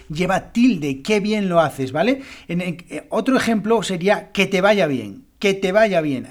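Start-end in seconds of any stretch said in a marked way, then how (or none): 1.0-1.9 "Qué" clearly stressed as a tonic word. Shown as a demonstration. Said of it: "es una palabra tónica". 4.3-6.3 "que" light, leaning on "vaya"; unstressed que. Shown as a demonstration. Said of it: "ahí vemos el grupo acentual".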